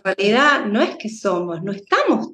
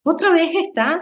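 mildly exasperated, pitch lifting; a hint of a tired parent losing patience; impatient sigh; 5 semitones higher than usual. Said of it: "Con, con poca tolerancia".

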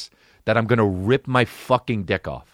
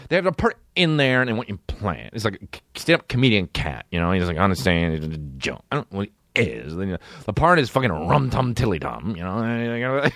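mock manager's low, rambling pitch; hurried imitation of a manager selling a role; 6 semitones lower, faster than usual. Manager talks client into a cat part, mock pitch. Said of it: "called me and it was like".

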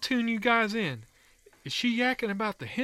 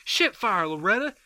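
shouting; 3 semitones higher, 6 dB louder than usual. Acted. Yelling to Loretta across house.

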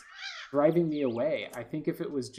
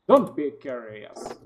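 slow, loud, mocking echo of the warning; mock game narrator; 9 dB louder, slower than usual. Player mocks the game narrator's warning, slow and loud. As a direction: parrot the narrator's warning, drawn out and teasing.

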